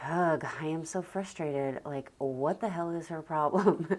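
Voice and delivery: exasperated inner voice, acted out; irritated grumble at her daughter; mock frustrated rant. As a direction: huff it out like you're fed up. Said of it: "I might be in frustration, like".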